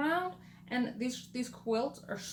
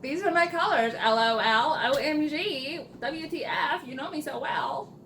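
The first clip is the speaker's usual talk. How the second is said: louder, playful spelling out "L O L, O M G, W T F"; mock text-speak; 3 semitones higher, 6 dB louder than usual. Teasing her friend back with hammed-up text speak. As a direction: ham up the internet acronyms. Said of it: "I thought you said".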